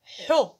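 teacher sounding a letter; short ha with damma. Shown as a demonstration. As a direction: sound out ح with a rounded u. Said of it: "أقول".

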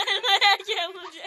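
laughing. Real, not acted. Repeats line laughing.

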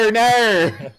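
loud mock Australian accent; bad Australian accent. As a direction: shout it in a hammy Australian accent. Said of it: "a really bad Australian accent".

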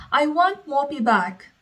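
high, loud demanding cry; a child insisting at full volume; screamed. Acted. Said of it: "Sophia screamed".

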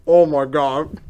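loud, high disgusted yell; disgusted shout. Real, not acted. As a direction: shout out the gross taste. Tasting dog food sandwich.

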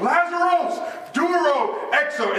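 high, projected command; calling out. Retold or imitated. Preacher repeating Jesus's Greek command at the tomb, calling out. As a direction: call it out, starting high and stepping down.

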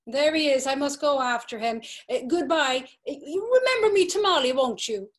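high, loud hasty goodbye; excited flustered farewell; hurried calling out. Acted. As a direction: call out while rushing after him. Mrs Breen hurries off.

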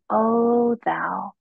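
slow, slightly lifted call of comfort; retold call to hearten someone, each word drawn out; comforting, encouraging call. Peter calls to his wife before her death, comfortingly and encouragingly. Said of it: "comfortingly and encouragingly. He called out to her".

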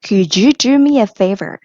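slow model sentence. Shown as a demonstration. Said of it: "model for students".

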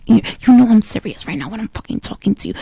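quick, contained menace without raising the voice; inner mean voice. Shown as a demonstration. Showing her partner how to trash-talk while she sleeps, contained mean voice. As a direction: demonstrate being mean without screaming. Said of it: "I have an inner mean voice".

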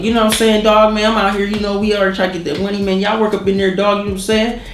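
high-pitched imitation of a slangy white guy; white dude impression. White dude talking big to his old friend, imitated slangy chatter. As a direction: mimic him chattering up high, casually. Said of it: "the white dude was like".

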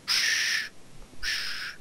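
soft unvoiced shush. Real, not acted. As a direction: hush someone quietly.

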